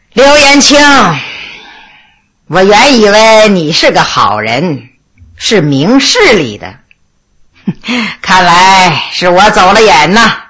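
low, scornful mock disappointment; cold sneer. A narrator's reading. Accused Liu Kang tells the judge he misjudged him, low cold sneer. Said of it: "冷笑一声说".

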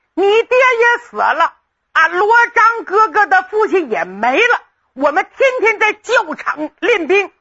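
bursts in with big news, urging; excited friend. Acted.

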